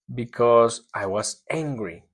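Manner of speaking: slow careful answer, stress on "because"; slow model answer. Shown as a demonstration. Teacher modeling an answer for the class, slowly. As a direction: read it slowly for learners. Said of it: "modeled answer".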